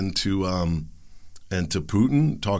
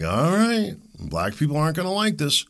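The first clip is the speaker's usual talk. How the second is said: mock globalist planner; 7 semitones higher than usual. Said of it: "they're like".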